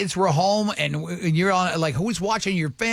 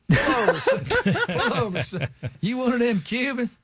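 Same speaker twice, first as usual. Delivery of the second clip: mock Florida cop. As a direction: play a small-town cop pulling over a speeder. Host mimics Polk County traffic cop.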